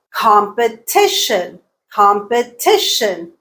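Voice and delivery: competition slowed, TI strong; measured competition, punch TI then fall away; third-syllable stress. Shown as a demonstration. Teacher showing learners word stress, competition stressed on TI. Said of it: "T is the stressed syllable".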